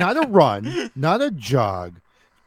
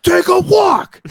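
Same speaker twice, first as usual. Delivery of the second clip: high, loud barked command; shouted order; 6 dB louder, slower than usual. Retold or imitated. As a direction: yell it to send him off. Friend ordering kid away.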